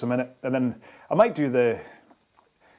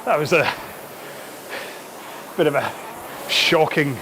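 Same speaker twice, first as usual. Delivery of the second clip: breathless after a sprint; panting between words; out of breath. Real, not acted. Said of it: "so out of breath".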